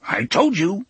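high little engine voice; small gruff train. A narrator's reading. Train proves itself to engineer, high small gruff voice. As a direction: pipe it up as a talking train. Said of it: "said Charlie the Choo-Choo".

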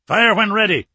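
high, loud battle yell; yelled command. Acted. Frigate captain orders rockets fired at submarine, yelling. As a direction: yell the order across the deck. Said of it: "the captain yelled".

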